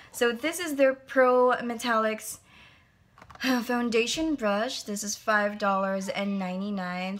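winded, sighing between words; out of breath. Real, not acted. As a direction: talk while catching your breath. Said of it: "Sorry if I'm catching my breath".

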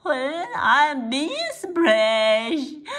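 slow, halting protest; flustered storybook stammer; slightly stammering. Acted. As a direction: stumble on the first word, then draw it out. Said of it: "他有点结结巴巴的说".

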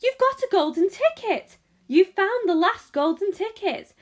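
high, loud shopkeeper calling everyone over; thrilled, high-pitched hollering; excited screaming. A narrator's reading. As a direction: shout the astonishing news to the whole shop. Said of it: "screamed the shopkeeper".

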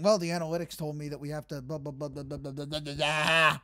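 dismissive mumbling parody of the manager's excuses; sarcastic imitation of a dull explanation; mocking the manager. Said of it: "He'll just do something".

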